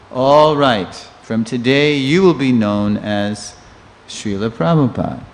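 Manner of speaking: proclaiming. Retold or imitated. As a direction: declare it like a ceremony. Disciple formally proclaiming the name.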